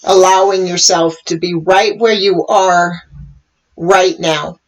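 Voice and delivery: calm meditation guiding, long pauses between phrases; guided meditation. Real, not acted. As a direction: guide listeners gently into the moment, leaving space. Leads a meditation.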